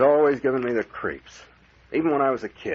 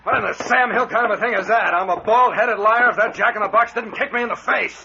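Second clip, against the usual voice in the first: indignant amazement; 10 semitones higher than usual. Acted. Kicked in the face.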